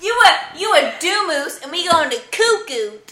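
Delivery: "cuckoo" and "doomoose" with vowels turned to ooh; every vowel in "cuckoo" said as ooh; ooh language. Shown as a demonstration. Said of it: "That's cookout".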